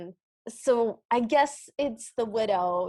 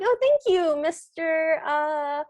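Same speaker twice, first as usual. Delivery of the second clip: put-on girly voice; 3 semitones higher, 4 dB louder, slower than usual. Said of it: "And then Cindy's like".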